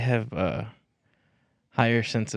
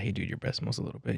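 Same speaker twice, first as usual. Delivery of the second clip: softer, private-word tone; discreet aside; 10 dB quieter than usual. Acted. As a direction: tell a friend quietly on the side. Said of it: "pull me aside".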